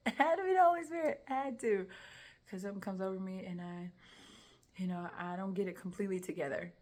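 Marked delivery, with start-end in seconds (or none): 0.1-1.9 loud, high, quick insistence; emphatic conviction. Real, not acted. Woman testifying what came over her, emphatic conviction. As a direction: burst out with it, utterly convinced. Emphatic repeat crediting the Holy Spirit.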